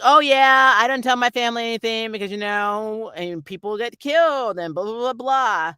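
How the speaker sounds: lightly voiced mock Sylvester brushing it off. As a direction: toss it off like it's nothing. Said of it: "So Sylvester's like".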